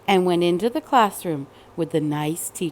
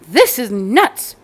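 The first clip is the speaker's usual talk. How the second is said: exasperated father; 5 dB louder, slower than usual. Acted. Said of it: "said her father".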